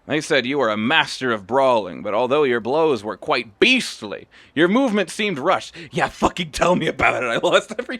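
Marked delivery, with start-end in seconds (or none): 0.1-5.7 lightly voiced stern old master, a bit louder; old master Kamaki. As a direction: read the master's judgement with weight. Reads Kamaki's lines.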